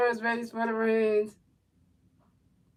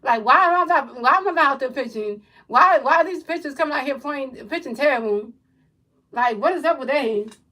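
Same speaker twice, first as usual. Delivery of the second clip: exasperated pitcher. Retold or imitated. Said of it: "in the dugout looking at this game is like".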